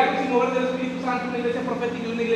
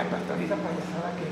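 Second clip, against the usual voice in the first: a mock scoffing churchgoer, much lower and softer; mocking skeptic; 7 semitones lower, 9 dB quieter than usual. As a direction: scoff like a doubter. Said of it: "algunos pueden decir". (burlón escéptico)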